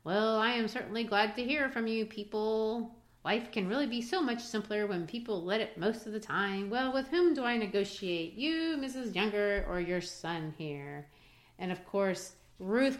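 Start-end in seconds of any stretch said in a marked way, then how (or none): 0.0-11.1 lightly voiced fawning buffoon, a touch higher; buffoon Linder. Hosts quoting Mr. Linder, a hint of buffoon. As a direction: play Linder as an oily, silly fool. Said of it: "like a complete buffoon".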